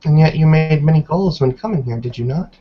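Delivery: lightly voiced disappointed old woman; a hint of a stern tribal elder; stern elder matriarch. Elder presses accusingly.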